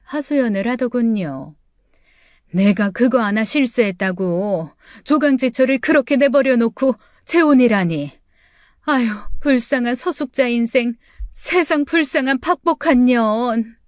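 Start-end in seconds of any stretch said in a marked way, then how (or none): 2.5-13.8 a lightly voiced mother bemoaning her fate; mother's lament.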